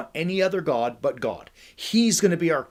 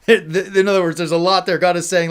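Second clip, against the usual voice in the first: much louder, higher, talking through laughter; laughing; 4 semitones higher, 9 dB louder than usual. Real, not acted. Preacher tells what God is saying, laughing loudly.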